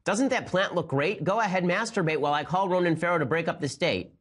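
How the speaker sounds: hammed-up offended woman voice; mock triggered woman. Host mocks the New York Times writer's outraged date. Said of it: "And then she says".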